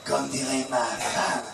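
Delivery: Colombo impression. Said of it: "c'est Colombo".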